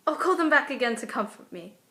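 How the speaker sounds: wanting comfort against her better judgment; acted plea, mildly frightened; giving in, scared. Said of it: "giving in to something she knows she shouldn't".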